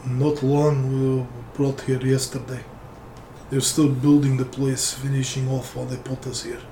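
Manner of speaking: put-on tired prisoner with a faint Russian accent. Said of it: "I feel like doing a Russian accent instead".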